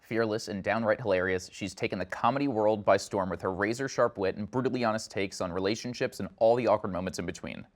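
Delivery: polished anchor-style intro read; news reporter voice. Acted. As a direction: read it like a TV host introducing a guest. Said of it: "I have to put on my news reporter voice".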